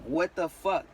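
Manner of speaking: loud, high yell imitating mom; retold yelling. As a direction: yell it like an outraged mother. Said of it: "starts yelling at me".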